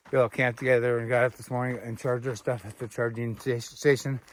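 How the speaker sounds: numb lips, words slightly stiff; talking through a cold, stiff mouth. Real, not acted. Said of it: "my mouth is so cold, it's hard to talk".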